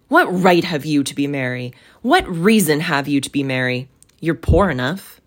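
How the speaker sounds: mildly scornful scolding; grumpy challenge. Acted. Scrooge scolds his merry nephew, mildly grumpy. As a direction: challenge him sourly, in a mostly level pitch.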